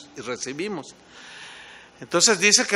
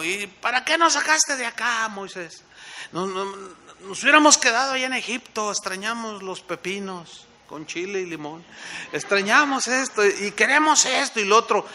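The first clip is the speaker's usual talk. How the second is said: higher, whiny griping crowd; grumbling complaint; 5 semitones higher than usual. Retold or imitated. The people griping to Moses about Egypt, whiny and higher. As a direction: nag like ungrateful wanderers.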